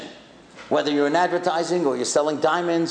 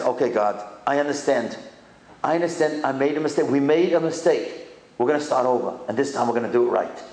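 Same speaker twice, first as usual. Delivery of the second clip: humble prayer; 5 semitones lower than usual. Acted. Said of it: "That's not what Rabbi Akiva does".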